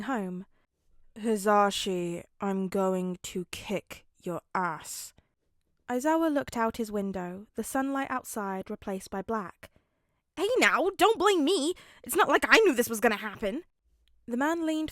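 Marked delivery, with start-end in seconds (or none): 1.2-5.1 low, slow, menacing drawl of a tired father; tired dad promising payback, slow and low; gruff threat. Acted. Aizawa threatens Hisashi in car. 10.4-13.6 high, loud, rushed protest; flustered husband yelling back at his grumpy partner; defensive shout. Acted. Hisashi defends himself, shouting.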